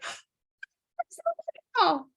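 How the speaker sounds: mock rapture, rising on wonderful; gasping delight. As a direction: gush over the good news. Delighted reaction to news.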